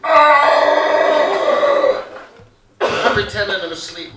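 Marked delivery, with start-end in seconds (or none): 0.0-2.0 mock scared yelp. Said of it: "gone from laughing hysterically to".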